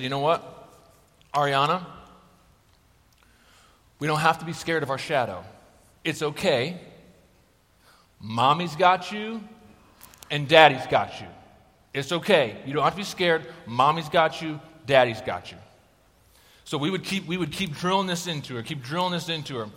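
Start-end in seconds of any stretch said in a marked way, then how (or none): 0.0-6.8 put-on soothing a child. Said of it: "She just said". 8.2-15.6 put-on soothing a child. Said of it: "She just said".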